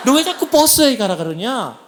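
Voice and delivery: baffled complaint. Retold or imitated. Newcomer to employer who mentioned the boss, baffled complaint. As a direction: retell it as a puzzled objection.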